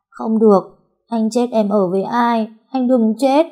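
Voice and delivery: put-on high, insistent child's wail; tearful protest. A narrator's reading. Girl refusing to let her hurt friend go, tearful protest. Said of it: "Cô vẫn khóc".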